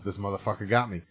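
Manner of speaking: low, hushed inner monologue; thinking to himself. Retold or imitated. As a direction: say it softly, only to yourself. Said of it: "just thinking to myself".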